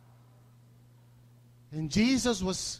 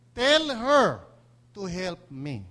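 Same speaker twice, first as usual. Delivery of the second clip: demanding; 2 semitones lower, 5 dB louder, much slower than usual. Retold or imitated. Martha's demanding quote to Jesus.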